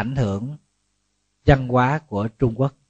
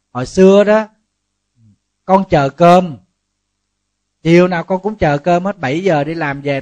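louder, indignant wife venting about waiting for dinner; voicing the wife's grievance; 4 dB louder than usual. Wife tells the monk she stopped waiting with dinner, louder and indignant. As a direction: play the fed-up wife telling her husband off. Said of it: "Chị nói hồi xưa là con khóc".

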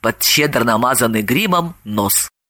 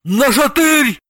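high-pitched urgent yell; yelled call; 7 semitones higher, slower than usual. A narrator's reading. Santa calls for smelling salts, high-pitched yell. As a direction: cry out for help, voice raised high. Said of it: "Дед Мороз завопил".

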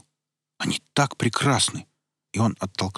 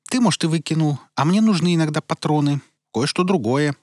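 put-on high, loud young woman; girl voice; 7 semitones higher, 5 dB louder than usual. Girl speaks, voiced character.

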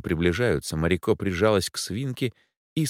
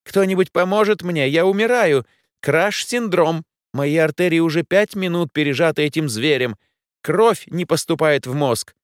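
much higher, louder hysterical robot; panicked wail; 10 semitones higher, 5 dB louder than usual. Acted. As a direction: overdramatize dying. Гермес паникует под свинкой. (истерично вопит робот)

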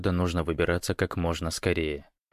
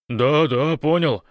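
loud, high, flustered reply; hurried gabbling; 7 semitones higher, 6 dB louder, slower than usual. A narrator's reading. Большой answers Гош's orders, flustered and hurried. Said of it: "затараторил Большой".

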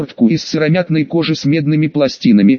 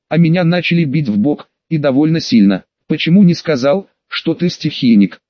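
ordinary delivery, nothing marked

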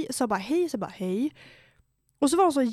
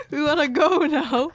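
laughing refusal; 4 semitones higher, 5 dB louder, slower than usual. Retold or imitated. Laughing while refusing the guy.

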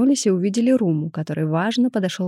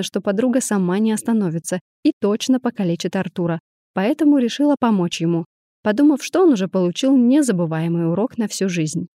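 plain reading voice

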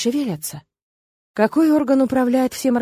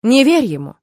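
louder, urgent warning; raised voice; 3 semitones higher, 5 dB louder than usual. Acted. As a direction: raise your voice to warn him. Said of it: "Тирг повысил голос".

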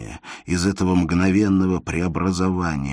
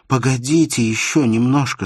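higher, louder call to wait; urgent plea; 8 semitones higher, 7 dB louder than usual. Acted. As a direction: stop him at the door. Elena stopping Insarov leaving.

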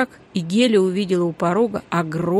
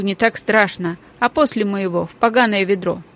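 ordinary delivery

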